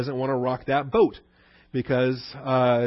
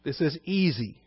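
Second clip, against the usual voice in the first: scheming high priest; 6 semitones higher than usual. Retold or imitated. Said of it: "He says".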